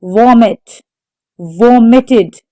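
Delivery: vomited, stressed on VOM; vomited with the weight on its first syllable. Shown as a demonstration. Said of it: "The stress is on the first syllable".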